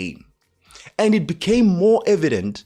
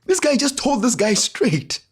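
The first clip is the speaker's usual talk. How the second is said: shocked amazement; 11 semitones higher than usual. Retold or imitated. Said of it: "they start laughing. They're shocked".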